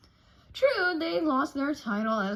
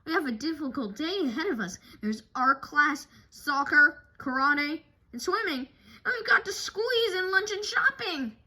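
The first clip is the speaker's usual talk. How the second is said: fast, frantic listing, rising higher; stressed rush; 5 semitones higher, 4 dB louder than usual. Acted. Mother listing the crammed day to her cubs, frantic and fast. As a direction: cram it all in, frazzled and fast.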